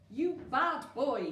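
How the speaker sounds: loud gruff scolding; cross miner. A narrator's reading. Angry miner scolding Digger for grabbing his foot, loud. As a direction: tell the dog off sharply. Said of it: "he hissed".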